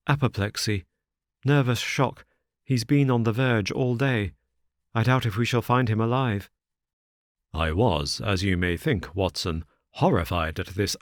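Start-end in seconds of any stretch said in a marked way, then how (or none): 0.1-6.5 lightly voiced anxious son; a hint of a worried young friend; distressed young man.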